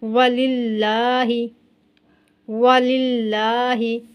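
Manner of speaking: वलिल्लाही with a light, thin ल, slow; slow tajweed recitation with thin lam. Shown as a demonstration. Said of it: "मोटा नहीं करेंगे".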